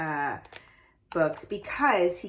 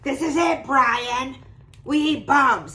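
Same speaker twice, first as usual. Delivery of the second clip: louder, higher, full of excitement; excited exclamation; 5 semitones higher, 8 dB louder, slower than usual. Shown as a demonstration. Teacher reads the piranha's line with excitement. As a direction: read it like every line ends in an exclamation mark. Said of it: "lots of exclamation points".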